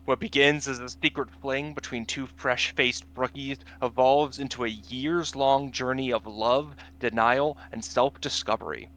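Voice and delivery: dramatic trailer-style read; narrator voice. Pretend. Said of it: "get your narrator voice".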